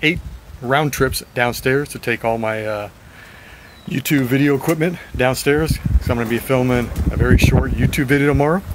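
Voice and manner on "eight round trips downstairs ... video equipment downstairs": winded, a little raspy from the stairs; breathless, slightly raspy voice; out of breath. Real, not acted. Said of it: "I'm a little out of breath. My voice is a little raspy".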